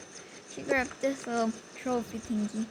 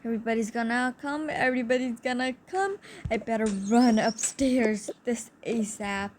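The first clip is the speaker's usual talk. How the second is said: panicky; 4 dB louder than usual. Retold or imitated. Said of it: "He was so scared".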